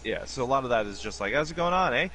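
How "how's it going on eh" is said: put-on Canadian accent. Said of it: "Version of Canadian".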